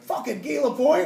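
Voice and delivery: loud, high delighted outburst; excited shout. Retold or imitated. Mosier shouting with joy after reading the script. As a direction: yell the name like it's the best joke ever.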